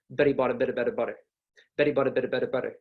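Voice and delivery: quick American version, better like bedder; American accent. Shown as a demonstration. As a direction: roll the T's lazily. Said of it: "we kinda just roll it".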